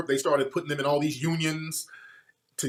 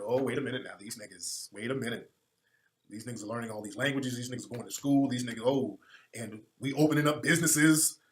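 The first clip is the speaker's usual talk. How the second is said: lower, softer mock racist panicking; alarmed white supremacist; 6 semitones lower, 5 dB quieter than usual. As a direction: hush it low like a plotting bigot caught off guard. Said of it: "the white supremacists said".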